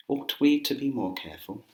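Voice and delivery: high posh English question; put-on posh English, rising at the end. Shown as a demonstration. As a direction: pitch it up in a mock-royal posh accent. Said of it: "you will sound very posh".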